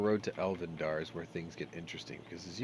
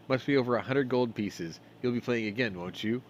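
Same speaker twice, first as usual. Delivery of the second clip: higher, pressing dwarf voice; lightly voiced dwarf; eager dwarf gambler; 4 semitones higher, 8 dB louder than usual. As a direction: coax the winner into another game.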